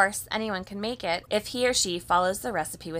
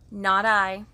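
snippy glee. A narrator's reading. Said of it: "with a snippy glee".

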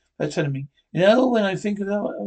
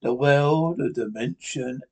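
announcer sign-off. Acted. Announcer closing the radio episode, measured sign-off. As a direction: sign off the show with weight.

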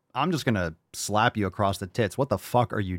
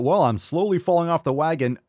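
mocking quote; 6 semitones higher, 3 dB louder than usual. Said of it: "when you're conscious about it".

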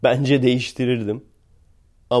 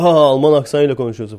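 louder acted taunt with fake ha-ha; mocking jeer; 5 dB louder, faster than usual. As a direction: jeer at someone's accent. Acting out people mocking accents.

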